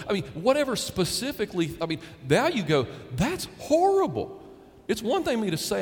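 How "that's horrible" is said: high, shocked outcry; shocked gasp. Retold or imitated. Listener hearing the confession, shocked outcry. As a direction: recoil in horror at the confession.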